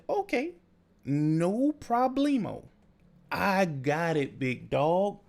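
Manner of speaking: sarcastic easygoing reply to a rip-off; mock cheerful agreement. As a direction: play along like it's no problem. Mock agreeing to a bad quote.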